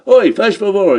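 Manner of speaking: haughty call to the barman; arrogant call. Acted. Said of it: "he calls out in the most arrogant manner".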